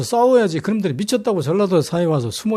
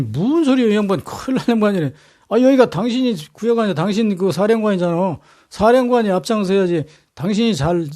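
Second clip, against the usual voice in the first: indignant retort. Retold or imitated. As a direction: push the blame back at him, exasperated. Yi Sun-sin rebuffs Won Gyun.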